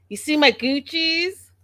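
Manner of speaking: high, sing-song mock voice; mocking show-off. Mimicking the mother flaunting her Gucci glasses, high and mocking. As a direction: parody a preening mother.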